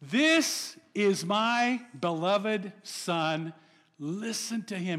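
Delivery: very slow, solemn heavenly voice; voice of God the Father. Acted. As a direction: lay each word down like a voice from heaven. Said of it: "the Father's voice".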